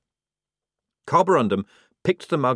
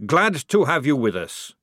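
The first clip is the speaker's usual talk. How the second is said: fervent; 4 semitones higher, 4 dB louder than usual. Acted. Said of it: "he added fervently".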